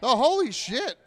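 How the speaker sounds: high, loud "holy shit" at the total; surprised exclamation. Real, not acted. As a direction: blurt it out, caught off guard. Sees donation total.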